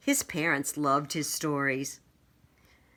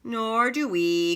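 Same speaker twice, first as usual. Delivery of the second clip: knights chorus; 5 semitones higher, 3 dB louder than usual. Acted. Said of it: "chorused the knights".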